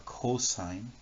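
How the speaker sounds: "cosine" in full, slowly as co-sine; pronunciation demo. Shown as a demonstration. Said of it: "pronounced like here, or cosine".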